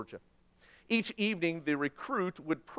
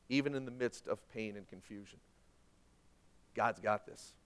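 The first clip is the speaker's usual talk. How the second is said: trusting prayer; 3 semitones lower than usual. Acted. Preacher voicing trusting prayer.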